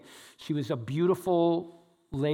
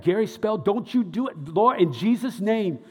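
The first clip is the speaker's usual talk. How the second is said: mock praying coworker; 5 semitones higher, 5 dB louder than usual. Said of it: "She was like".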